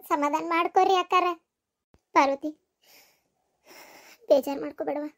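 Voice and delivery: calm them down quietly; soft consoling. Acted. Grieving daughter-in-law soothing the family, soft and low. Grieving woman comforts others.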